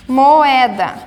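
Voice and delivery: Moeda with O and E in separate syllables; syllables split. Shown as a demonstration. Teacher shows the hiatus to students, syllables separated. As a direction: say Moeda slowly, mo-e-da. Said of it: "O O e o E estão em sílabas separadas".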